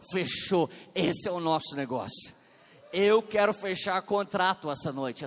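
loud, emphatic appeal to the congregation; full-force preaching. Real, not acted. Pastor calling listeners to receive Jesus tonight, emphatic preaching. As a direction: press each phrase home forcefully.

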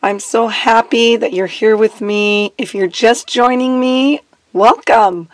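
lost voice, rough and strained; hoarse voice. Real, not acted. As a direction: talk through a hoarse throat. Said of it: "I have lost my voice".

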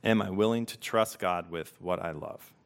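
unhurried questions with room to sit with them; slow reflective reading. Real, not acted. Pastor giving listeners a moment with each question, read slowly. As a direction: read each question slowly, leaving long silences after. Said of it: "just gonna read them slowly".

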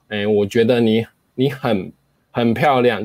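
很 hit hard and pushed downward; 很 dropped heavily before 漂亮; stress on 很. Shown as a demonstration. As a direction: slam down on the word 很. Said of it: "就是把那个很，就是往下砸这样子".

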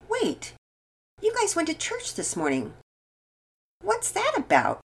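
put-on high-pitched, curious child's question; inquisitive. A narrator's reading. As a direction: wonder aloud, slowing on the last question. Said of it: "Nora asked inquisitively".

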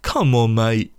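high, strained, pleading mock teammate; hammed-up baffled mate, voice cracking upward; exasperated teammate. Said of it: "it's, it's like".

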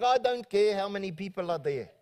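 imitated South African pastor's accent. Pastor retelling his colleague's insistence, South African accent. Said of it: "doing my South African accent".

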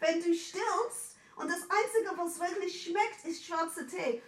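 leicht höher gesprochene, drängende Mutter, nur angedeutet; besorgte Mama. Retold or imitated. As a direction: spiel die besorgte Mama ein wenig höher nach. Mama im Streit nachgespielt. (Tochter ahmt die Mama nach, die auf schwarzem Tee besteht, leicht höher und drängend)

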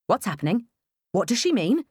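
firm demanding question. Acted. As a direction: insist on an answer. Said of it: "I demand".

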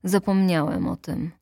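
ordinary delivery

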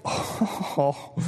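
whispered sinking oh; breathy oh. Retold or imitated. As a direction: let out a soft whispered oh. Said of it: "I'm thinking".

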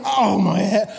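mock pained yell at the front desk; pained shout. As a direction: yell it like your head is splitting. Walking into the hospital in pain.

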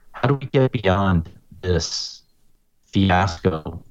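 broken-up signal, words dropping out; choppy connection distortion; garbled audio. Real, not acted. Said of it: "you sound a lot garbled".

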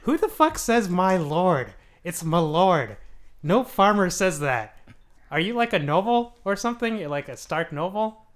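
loud, slow disbelief; mock-angry lord scolding; incredulous outburst. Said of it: "And he's like".

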